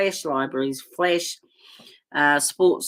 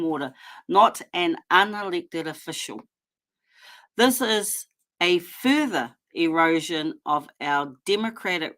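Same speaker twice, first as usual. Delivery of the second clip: reading a statement. Shown as a demonstration. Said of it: "I'll carry on with my statement".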